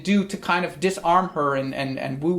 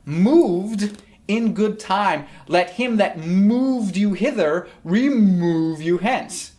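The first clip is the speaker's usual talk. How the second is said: Kate's retort; 3 semitones higher, much slower than usual. Acted.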